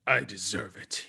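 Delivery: soft, low confession; subdued admission. Acted. Game master's doctor accepts his punishment, subdued. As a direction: say it quietly, accepting the blame.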